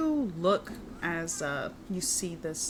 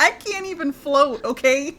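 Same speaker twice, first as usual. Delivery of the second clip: high, loud laughing protest; 9 semitones higher, 10 dB louder than usual. Real, not acted.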